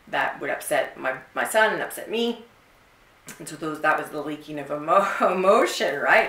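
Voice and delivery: normal talking voice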